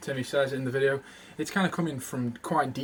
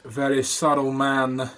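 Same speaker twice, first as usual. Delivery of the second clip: slow, louder Walken "Very subtle man"; Walken accent; 5 dB louder, slower than usual. Shown as a demonstration. Inviting viewers to try the phrase, Walken accent. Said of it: "just try that phrase".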